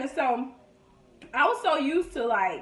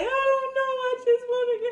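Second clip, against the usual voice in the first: retold crying; 11 semitones higher than usual.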